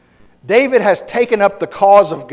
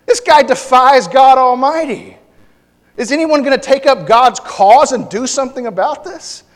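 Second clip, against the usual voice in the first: raised, higher indignant voice; rally the timid crowd, louder; David's indignant call; 7 semitones higher, 6 dB louder than usual. Retold or imitated. Preacher voicing David rebuking the scared Israelites, loud and high. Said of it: "And David's like".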